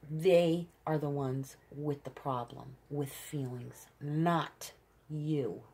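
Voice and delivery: measured emphasis, pausing before "not you"; "They" and "not you" set apart with firm, deliberate weight; emphatic. Real, not acted. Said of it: "say it very emphatically like that".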